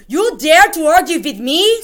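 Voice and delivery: high, loud outraged scream; witch screaming. Acted. Grand High Witch screaming at the frightened witch. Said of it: "screamed the Grand High Witch".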